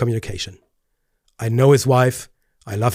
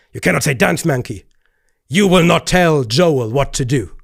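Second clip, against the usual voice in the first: mock angry Joel; 2 semitones higher, 3 dB louder than usual. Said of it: "how he got angry about this".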